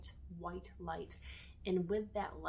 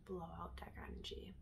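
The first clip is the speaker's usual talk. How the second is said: soft, soothing meditation voice with long pauses; guided meditation; 6 dB quieter than usual. Acted. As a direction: guide them gently through each breath.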